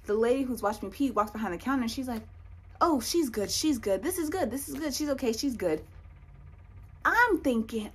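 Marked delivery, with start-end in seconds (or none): 2.8-5.8 high, quick repeated reassurance; cheerful mock announcement, pitched up; excited announcement. Clinic lady announcing the test result, excited.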